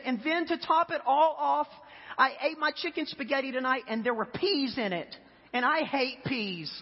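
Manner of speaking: high-pitched imitation of an upset partner; exasperated complaint. Wife venting to husband about supper, in mock exasperation. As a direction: act out a venting wife, slowing on the last grievance. Wife's piled-up complaints, acted out.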